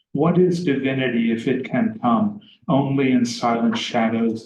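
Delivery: measured, even recital of verse; poem reading. Acted. Lecturer reading Stevens aloud to students, measured recital.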